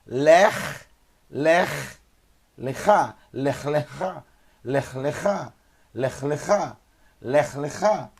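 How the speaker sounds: Lech and Lechá read slowly, syllable by syllable; Hebrew drill. Shown as a demonstration. Teacher drilling the class on Hebrew words, Lech and Lechá spelled out slowly. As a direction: drill Lech then Lechá, clear and slow. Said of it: "eu tenho Lech".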